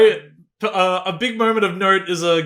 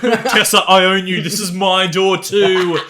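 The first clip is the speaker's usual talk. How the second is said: louder, slow mock of a jealous man at the door; mock possessive yell; 4 dB louder, slower than usual. Mocking Harden banging on Tessa's door, loud and slow. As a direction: bang out the words like a jealous boyfriend.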